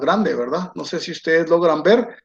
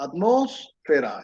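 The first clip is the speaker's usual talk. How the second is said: "atmósfera" said slowly and softer, every syllable separate; slow spelled-out word; 5 dB quieter than usual. Shown as a demonstration. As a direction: drag out each syllable of "atmósfera" softly. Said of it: "Es una palabra que esdrújula". ("atmósfera" lenta y más suave, sílaba por sílaba)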